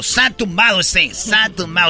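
slow cool street drawl; cholo street talk. Pretend. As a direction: lay it back like a cholo. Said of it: "ustedes sí están hablando como cholos". (hablado de cholo, lento y relajado)

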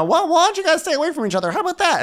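high, fast flustered voice; mock nervous Eddie. Eddie separating fighting guests, high and flustered. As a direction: rush it, high and panicky.

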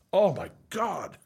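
slow, high, voice catching with emotion; fighting back real tears; real tearful gasp of emotion; choked up. Real, not acted. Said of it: "So I cry on every".

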